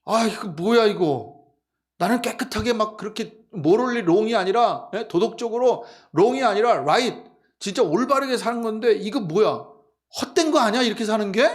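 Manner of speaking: 억울해하는 신자를 연기하듯 따져 묻기; 들뜬 목소리로 하소연하는 흉내; 부러움 섞인 불평. Acted. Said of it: "부러워가지고". (억울한 푸념 연기)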